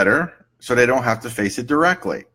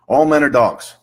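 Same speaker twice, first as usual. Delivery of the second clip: emphatic client outburst, somewhat louder; indignant client; 3 semitones higher, 5 dB louder than usual. Acted. Client in therapy makes a sweeping claim, indignant. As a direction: blurt it out as a sweeping complaint.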